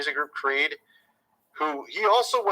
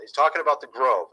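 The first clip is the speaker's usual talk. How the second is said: "talking" and "The Grove" leaned on knowingly; knowing, pointed emphasis on "The Grove"; deliberate stress; 3 semitones lower than usual. Shown as a demonstration. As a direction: land hard on "talking about The Grove" with a wink. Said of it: "I'm saying it that way on purpose".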